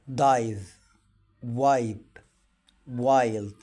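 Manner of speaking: دايف, وايب and وايلد each said with a clear ai; modeling the i sound as ai. Shown as a demonstration. Teacher models words for the class, clear. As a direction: say each word alone so the ai can be heard. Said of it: "دايمًا تكتب ولا تنطق".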